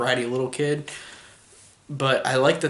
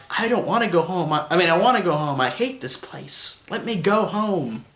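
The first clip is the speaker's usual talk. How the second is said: put-on enunciating little girl; 5 semitones higher than usual. Vlogger repeating the camp girl's wooden line, over-enunciated. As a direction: redo the bratty girl's stiff wooden line. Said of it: "she really enunciates every word that she says".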